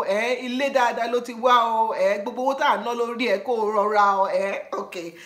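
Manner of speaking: brisk, pressing parental scolding, fast; parent's lecture. Retold or imitated. Parent warning daughter before college, fast and insistent. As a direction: lay down the law like a parent sending her off.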